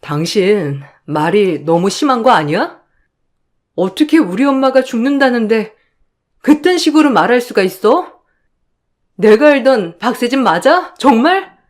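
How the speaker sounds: 점점 높아지며 분개해 따지는 목소리; 믿을 수 없다는 듯 남편을 몰아세워; 기막힌 항의. Acted. 남편에게 기막혀 따짐. (냉정한 남편에게 분개해 따지는 아내)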